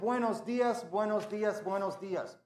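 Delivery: loud, high-pitched repeated hello; big, high announcer-style welcome; rousing greeting. Acted. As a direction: call out to wake up the whole school. Hailing the whole school to open.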